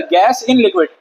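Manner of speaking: gas in liquid, with a falling stress on in; model reading. Shown as a demonstration. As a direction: say it the way it should be read. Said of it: "ऐसे पढ़ा जाता है".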